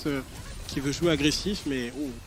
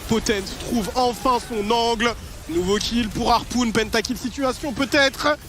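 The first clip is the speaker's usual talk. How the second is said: esports caster; 3 semitones higher, slower than usual. Real, not acted. Caster calls kills, pentakill chance.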